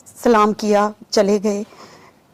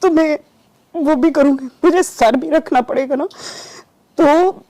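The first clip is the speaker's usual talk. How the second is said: desperate pleading; 5 semitones higher than usual. Retold or imitated. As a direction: beg with rising urgency. Pleading to Baba Jani, retold. (हताश होकर गिड़गिड़ाते हुए)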